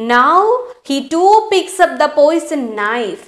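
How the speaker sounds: slow, deliberate reading of the story. A narrator's reading. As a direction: read each phrase slowly for the class. Teacher reads English story aloud. (പതുക്കെയുള്ള കഥ വായന)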